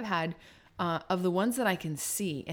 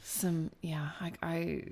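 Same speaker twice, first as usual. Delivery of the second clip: whispering; 2 semitones lower, 6 dB quieter, slower than usual. Real, not acted. Thinking out loud.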